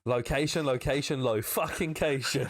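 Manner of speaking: mock TV catchphrase.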